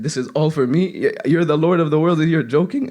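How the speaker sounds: incredulous servant. Retold or imitated. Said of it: "he thought it was like a prank".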